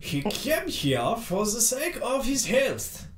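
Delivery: slow, halting broken English. Acted. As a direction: policeman struggling for each English word. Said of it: "said the village policeman in halting English".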